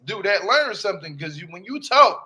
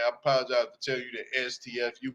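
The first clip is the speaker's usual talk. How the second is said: lower, much softer, sarcastic apology; mock apology; 9 semitones lower, 7 dB quieter than usual. Mocking the dad apologizing to his wife, sarcastic. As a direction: mumble a fake sorry.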